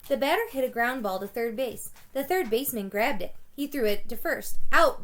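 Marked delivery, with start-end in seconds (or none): 4.7-5.0 loud umpire call; umpire's call. A narrator's reading. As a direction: call it like an umpire at first base. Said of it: "the umpire sounded".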